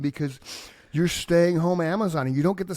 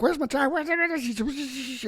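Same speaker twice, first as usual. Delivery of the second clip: put-on kid voice; 10 semitones higher, much slower than usual. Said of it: "he's like".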